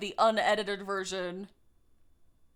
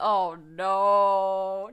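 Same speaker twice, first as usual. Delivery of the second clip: comic dismay; 5 semitones lower, 5 dB louder than usual. Real, not acted. Dismay at own accent.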